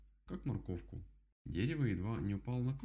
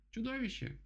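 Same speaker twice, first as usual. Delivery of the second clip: much higher panicked yell; frightened cry. Acted. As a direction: cry out the danger. Rabbit spots the monster.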